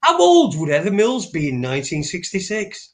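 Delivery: baffled, asking the obvious; incredulous. Retold or imitated. Man scoffing at a conspiracy film, incredulous. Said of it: "And I thought".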